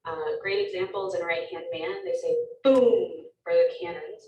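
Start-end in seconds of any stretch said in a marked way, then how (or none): 2.6-3.3 imitated cannon blast, drawn out; cannon boom. Shown as a demonstration. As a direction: sound a long boom like cannon fire. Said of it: "the sound of the cannons".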